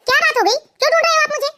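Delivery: irritated wife answering her husband; annoyed. Acted. Wife sulking when husband comes looking, annoyed. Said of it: "तुम इतने गुस्से में क्यों हो".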